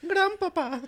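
put-on high, loud old man voice; hammed-up German grandpa. Drunk German grandpa bit.

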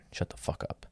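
whispered, scornful insult; muttered insult. Real, not acted. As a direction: mutter it under your breath at him. Angry aside about customer.

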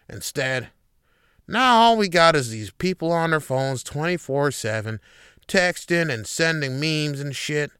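lightly voiced grumpy old commentator; a hint of a grumbling old man lecturing the kids; Andy Rooney. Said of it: "I feel like I'm Andy Rooney now".

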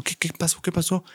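hushed, innocent what happened; cool, calm reply. Retold or imitated. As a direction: play it ice-cold and innocent. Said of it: "se mantuvo tranquilo y dijo".

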